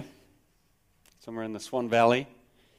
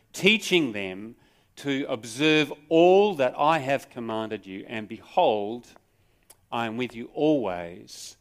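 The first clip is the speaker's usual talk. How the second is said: raised, measured Bible reading; scripture reading. Acted. Preacher reads Jesus' commission to the congregation, solemn proclaiming. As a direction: proclaim the passage with weight.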